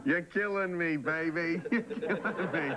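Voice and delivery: laughing through the words. Real, not acted. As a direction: chuckle it out. Laughing at the joke.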